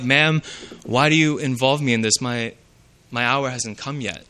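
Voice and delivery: soft, polite, fading at the end; gently turning her down; gentle tone. Shown as a demonstration. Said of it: "or that wasn't his tone. Maybe he said it more like".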